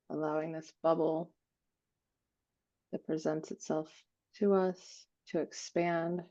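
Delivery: calm, unhurried meditation guide with long pauses; guided meditation. Acted. Guiding a group to breathe into an expanding bubble, calm meditative voice. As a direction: lead them gently through each breath, leaving space.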